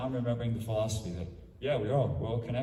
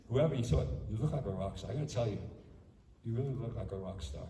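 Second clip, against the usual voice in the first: softer, heartfelt and earnest; mean every word of the praise; sincere compliment; 4 dB quieter than usual. Shown as a demonstration. Monk showing how to compliment a student, sincerely and softly. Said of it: "And you gotta say it really sincerely".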